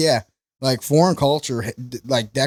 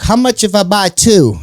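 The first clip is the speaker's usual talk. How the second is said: haggling lady; 7 semitones higher, 6 dB louder than usual. Retold or imitated. Customer lady haggling, voiced.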